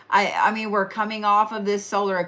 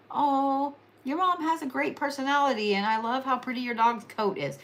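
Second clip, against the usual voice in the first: higher, sugary compliment voice; sweet tactful compliment; 4 semitones higher, 4 dB quieter than usual. Shown as a demonstration. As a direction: gush sweetly to soften it. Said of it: "You have to be like".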